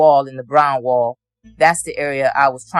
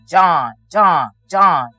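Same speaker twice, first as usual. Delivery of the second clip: calling out; 3 semitones higher, 4 dB louder, much slower than usual. Retold or imitated. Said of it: "But I could hear her say".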